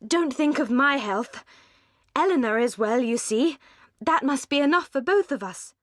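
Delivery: spirited, lifted reassurance; earnest, insistent. A narrator's reading. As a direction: insist she is fine, with feeling. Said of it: "with spirited earnestness".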